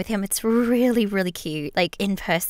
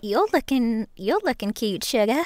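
put-on Southern accent; 4 semitones higher than usual. Catnap sister flirts with T V Man, Southern accent. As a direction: sweet-talk him like a Southern belle. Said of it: "why you Southern?".

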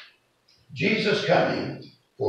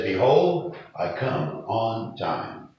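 measured quotation; slower than usual. Retold or imitated. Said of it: "translates this sentence this way".

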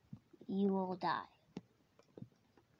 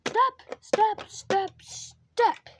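each step said louder and higher, spaced out; stepping instruction; demonstrating the steps; 4 semitones higher, 5 dB louder, much slower than usual. Shown as a demonstration. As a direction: call out each step like a rhythm. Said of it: "And then you go".

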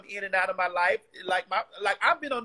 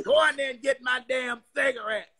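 grandma voice; 2 semitones higher than usual. Retold or imitated. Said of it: "chain smoking ass grandmammies".

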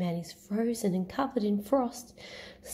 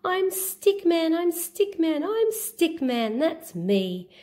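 Stick Man voice; slower than usual. Acted. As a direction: chant the refrain brightly, stretched out. Stick Man's homecoming.

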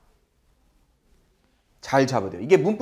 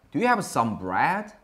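slow, deliberate model question; slow model sentence; 3 semitones lower, 4 dB quieter, much slower than usual. Shown as a demonstration. Teacher slowly reading the sentence for students to repeat. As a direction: say it slowly so students can follow. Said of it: "계속 따라하세요".

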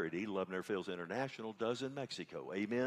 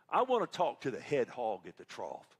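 countrified Texas voice; 6 dB louder than usual. Retold or imitated. Caller asking the church office for the pastor, countrified Texas voice. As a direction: put on a bit of loud Texas twang. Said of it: "a very countrified voice".

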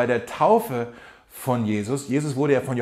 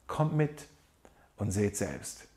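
soft, inviting Jesus voice; quiet, tender call to come along; gentle invitation; 5 semitones lower, 11 dB quieter, slower than usual. Retold or imitated. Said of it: "diese wunderbare Einladung".

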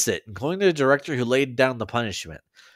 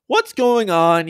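high, bewildered exclamation; alarmed, pitched-up question; crying out; 9 semitones higher, 4 dB louder, slower than usual. A narrator's reading. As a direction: cry it out high, stretching the question slowly. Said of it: "you cried".

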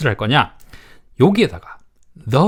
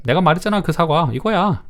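reminding someone; 6 semitones higher than usual. Acted. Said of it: "이런 느낌을 말할 때".

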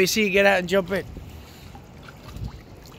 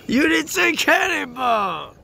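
calling out; 6 semitones higher, slower than usual. Real, not acted. Parent calling to pool.

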